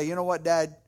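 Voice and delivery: understated, earnest apology to a dad; sincere apology. Acted. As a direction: own up to dad simply and sincerely. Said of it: "look your dad in the eye".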